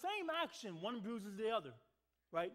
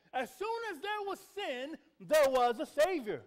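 emphatic preacher's repeat; 3 semitones higher, 8 dB louder than usual. Shown as a demonstration. Preacher to church, repeating the quote loudly. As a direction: proclaim it the second time with force. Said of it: "We should be praising God, amen?".

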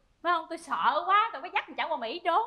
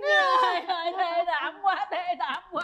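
dismayed outcry; 4 dB louder than usual. Acted. Wife hearing of her husband's crash, dismayed outcry.

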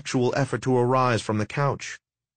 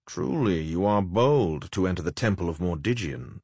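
sneering gloating dark voice; 3 semitones lower than usual. Acted. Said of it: "oily, mocking speeches of the necromancer".

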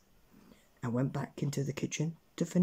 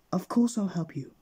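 high, eager, anxious promise; panicked agreement; 6 semitones higher, 4 dB louder than usual. A narrator's reading. Mister Mean agrees to help the washerwoman, in panic. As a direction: hurry to give in. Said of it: "he cried in a panic".

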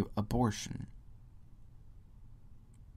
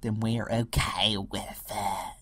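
mock gullible people; 4 dB louder than usual. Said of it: "People are like".

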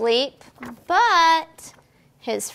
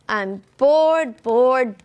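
roaring; 5 dB louder, slower than usual. A narrator's reading. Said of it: "roars Bear".

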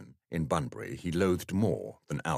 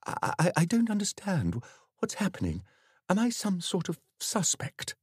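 voice shaking slightly; 12 semitones higher than usual. Acted. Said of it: "his voice shaking slightly".

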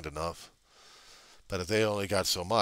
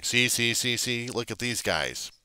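lightly mocking, slightly raised complaint; bellyaching; 4 semitones higher than usual. Independents on YouTube pointing at rivals, mock bellyaching. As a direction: mimic whiny tattling with mild insistence. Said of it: "kicking and screaming and bellyaching about 'em".

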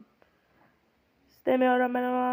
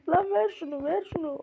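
annoyed demand; 6 semitones higher, 3 dB louder than usual. Real, not acted. Fighting the baby for key.

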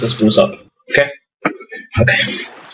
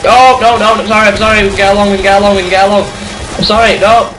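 mock pleading; 6 semitones higher, 4 dB louder, much faster than usual. Mock pleading with a game enemy.

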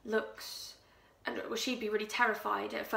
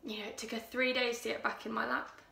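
Louise, hushed and menacing; 2 semitones higher, 6 dB quieter than usual. Acted. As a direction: draw them in with a chilling hush. Louise quietly recounts strangling the cat.

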